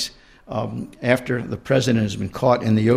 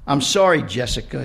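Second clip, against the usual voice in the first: a hint of a whiny apology; lightly voiced sniveling husband; mildly sniveled sorry; 3 semitones higher than usual. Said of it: "he sniveled".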